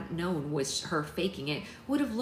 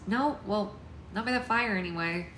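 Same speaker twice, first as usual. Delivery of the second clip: slightly higher character voice; wrong character voice; 4 semitones higher than usual. A narrator's reading. Alex answering the parents, mistakenly higher voice. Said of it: "Sorry, wrong voice".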